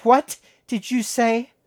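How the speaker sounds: put-on loud, slow drunken challenge; drunk mother demanding. A narrator's reading. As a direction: demand it high and slurred.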